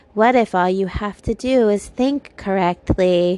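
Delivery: breathy, put-on woman's narrator-style voice. Retelling the woman's voice in a video; breathy video woman voice. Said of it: "this woman with this like very breathy voice".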